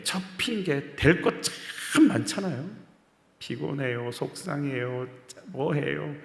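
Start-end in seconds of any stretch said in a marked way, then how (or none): 3.4-6.1 soft, low mumbled excuses; mock tired excuses. Preacher mimics the congregation's excuses, softly. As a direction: sigh out the lazy excuses quietly.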